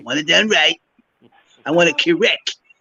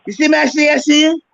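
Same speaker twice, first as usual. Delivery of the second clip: imitating Mister Brown; 10 semitones higher, faster than usual. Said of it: "I said".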